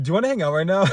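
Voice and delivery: high, loud eager invite. Retold or imitated. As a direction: bounce with excitement to hang out. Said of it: "then be like".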